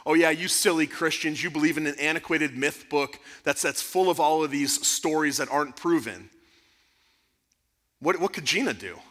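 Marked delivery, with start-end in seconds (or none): 0.1-6.3 lightly voiced scornful professor; mild mock tirade, slightly pushed; professor's tirade. Professor scoffs at his Christian students, mildly mocking. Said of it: "goes on his, his anti-Christian tirade".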